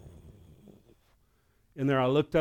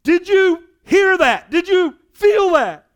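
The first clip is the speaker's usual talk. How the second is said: much higher, louder, slow and amazed; urgent excited question; 10 dB louder, slower than usual. Retold or imitated. Youth pastor blurting out to the pastor, higher and louder in amazement. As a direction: burst out in disbelief. Brother-in-law finally admits it.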